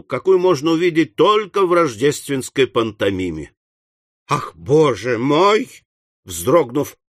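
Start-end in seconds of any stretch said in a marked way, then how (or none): 4.3-5.8 slow, drawn-out mild shock; understated startled gasp of words; startled exclamation. Acted. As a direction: exclaim in astonishment, stretching the words. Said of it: "воскликнул мистер Пиквик".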